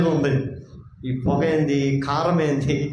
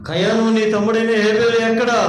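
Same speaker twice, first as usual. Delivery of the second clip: God asking, louder and higher; God calling out; 5 semitones higher, 4 dB louder than usual. Acted. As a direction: call to Cain as God, searching. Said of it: "అని అడగటానికే ప్రయత్నం చేస్తాడు దేవుడు". (దేవుడు కయానును పిలుస్తూ గట్టిగా అడుగుతున్నాడు)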